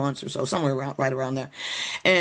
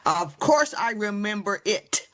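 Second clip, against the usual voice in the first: slow, deliberate retold reply, slightly raised in pitch; full-sentence answer; 4 semitones higher, slower than usual. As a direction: spell it out word by word, as the aunt. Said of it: "Auntie says in full sentence".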